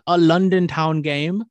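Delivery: slow, lilting mock-British announcement; terrible British accent. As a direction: attempt a hammy British London accent. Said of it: "that was a terrible British accent".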